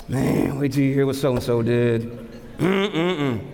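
mock grumbler spreading gossip; complaining grumble. Preacher imitating people who complain and grumble, mock complaining tone. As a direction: grumble it, trailing into disapproving hums. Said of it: "they change the tone of their voice".

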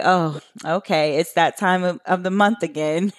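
imitating a bored, unimpressed friend; a hint of weary eye-rolling monotone; mock monotone. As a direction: lightly mimic a flat, here-we-go-again tone. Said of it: "in their monotone voice".

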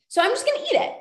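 a high, squeaky put-on voice; mock binge excuse. Mocking her own binge excuse in a high squeak. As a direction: pitch it way up, half-mocking yourself.

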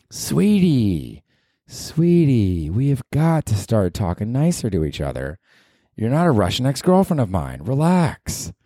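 high coaxing sweetie voice; calm down a tantrum, sing-song; mock soothing. Host soothing his own mean voice, high and coaxing. Calming the mean alter ego.

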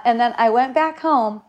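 normal talking voice

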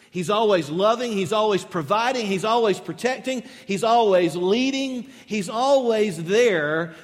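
always stressed each time, voice rising; preacher building to a peak; building list. Acted.

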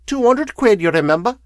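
high, loud wheezy crone; wheezing. A narrator's reading. Woman holding the lawyer to two hundred quid, wheezing. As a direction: wheeze it out as a reminder. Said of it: "she wheezed".

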